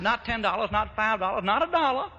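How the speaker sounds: insistent, pitch stepping up; emphatic refusal. Retold or imitated. Mock indignation, haggling in retold exchange.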